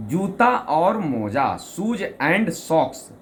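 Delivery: slow announced poem title; slow recital of a title. Shown as a demonstration. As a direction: announce the title slowly like a stage poet. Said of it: "कविता के माध्यम से सुना रहा हूं".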